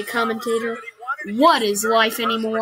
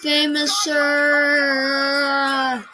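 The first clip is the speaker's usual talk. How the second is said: mock echo; 2 semitones higher, much slower than usual. Mocking the commentator's line.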